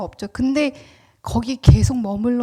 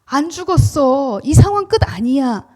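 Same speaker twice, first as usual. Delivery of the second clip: God's reassurance; 2 semitones higher, 4 dB louder than usual. Acted. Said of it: "이 말씀을 하고 계신다는 거예요". (천천히 시작해 크게 선포하는 하나님의 약속)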